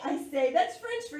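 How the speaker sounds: measured, expressive picture-book narration; story reading to children. A narrator's reading. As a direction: read it aloud to young listeners with clear phrasing. Reads picture book aloud.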